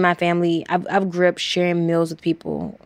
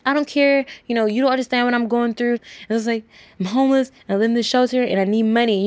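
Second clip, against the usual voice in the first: higher, pleading and desperate; distraught outburst; 6 semitones higher than usual. Retold or imitated. Crying runner telling her coach she's homeless and needs this, higher. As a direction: pour out the desperation.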